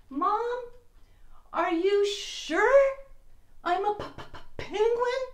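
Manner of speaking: high, slow, stammering plea; chattering teeth on p; shivering stutter. Acted. Penguin asks his mother.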